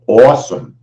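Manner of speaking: lightly put-on New York accent; a touch of New York in the voice. Shown as a demonstration. Trader remarking on Canada's numbers, light New York accent. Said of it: "said with the New York accent".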